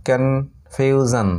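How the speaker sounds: কনফিউশন said very slowly, kon-fyu-shon; drawn-out teaching model of কনফিউশন; slow pronunciation demo. Shown as a demonstration. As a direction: spell out কনফিউশন syllable by syllable. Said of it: "কনফিউশন এটার উচ্চারণ".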